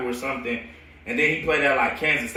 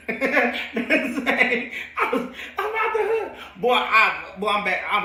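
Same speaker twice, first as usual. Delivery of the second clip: much higher, slow, breaking into laughter; laughing; 8 semitones higher, slower than usual. Real, not acted. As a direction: squeal it out through laughs. Laughing while retelling leaving.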